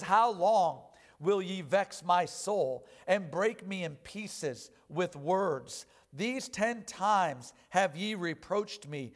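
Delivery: slow, weighty reading of Job's lament; measured pulpit recitation of scripture; solemn scripture reading. Acted. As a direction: read it like a grieving plea, drawn out. Reads Job's complaint.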